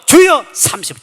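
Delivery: fervent shouted chant; crazed shouted prayer. Retold or imitated. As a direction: cry out to the Lord like a madman. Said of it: "지도 미치고 나도 미치고".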